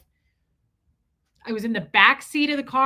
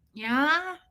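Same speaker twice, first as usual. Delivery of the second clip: drawn-out Tennessee drawl, rising and higher; thick Tennessee accent; 5 semitones higher than usual. Retold or imitated. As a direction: imitate a Tennessean's questioning drawl. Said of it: "really thick accent Tennesseans like that".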